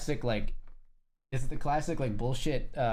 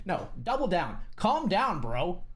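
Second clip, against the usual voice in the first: mock double down; 3 semitones higher than usual. Mocking the person doubling down.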